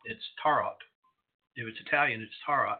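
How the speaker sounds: tarot with a clear final T, TAH-rot; final T sounded. Shown as a demonstration. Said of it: "pronounce that final T".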